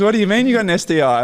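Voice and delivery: high, quick incredulous question; retold disbelief. Team doctor questioning young player's confession, mock-incredulous. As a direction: imitate a stunned doctor, pitched right up.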